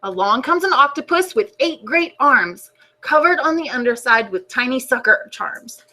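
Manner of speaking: put-on gentle storybook narration for kids; reading to children. A narrator's reading. Teacher reading the class a book, storybook voice. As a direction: read it like story time on the rug.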